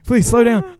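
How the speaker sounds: hammed-up cry of a student falling behind; mock pleading yell.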